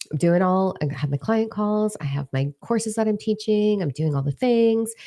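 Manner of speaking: high, held sing-song list; listing off chores. Retold or imitated. Rattling off her busy day.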